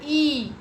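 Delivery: ई held as a long "ee"; long E sound. Shown as a demonstration. Teacher giving the sound of the pair, long ई. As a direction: stretch ई out steadily. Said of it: "उसका sound होता है".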